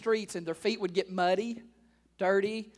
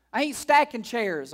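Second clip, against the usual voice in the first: grumbling church member; 3 semitones higher, 6 dB louder than usual. Retold or imitated.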